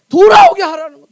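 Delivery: emphatic command. Real, not acted. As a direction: preach it out forcefully at full volume. Preacher stresses the key command.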